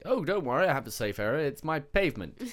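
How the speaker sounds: loud, high mock-cheery reassurance; sarcastic reassurance. Mocking the delivery driver, loud mock-cheery reassurance. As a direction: sell the pavement as a safe spot, mock-chirpy. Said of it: "It's like".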